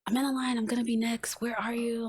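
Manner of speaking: fed up with waiting on someone; agitated. Retold or imitated. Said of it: "I'm just, like, so agitated".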